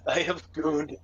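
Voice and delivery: mock-dramatic confession through laughter; hammed-up shame, laughing through it. Mock samurai shame while laughing.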